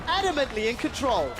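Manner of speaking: animated caster riding the action; excited play-by-play. Real, not acted. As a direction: call the fight as it swings. Live play-by-play of fight.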